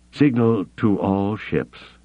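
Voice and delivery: slow, strained rasp. Acted. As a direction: rasp out the order slowly. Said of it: "he rasped".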